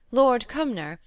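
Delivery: ordinary delivery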